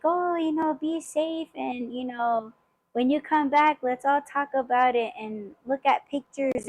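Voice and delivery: sweet farewell. Retold or imitated. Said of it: "everybody was like".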